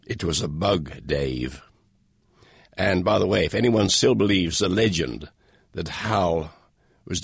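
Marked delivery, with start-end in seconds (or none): 0.1-1.6 soft, low, menacing computer voice; lightly voiced calm AI menace; silken sinister voice. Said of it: "in a silken yet sinister voice".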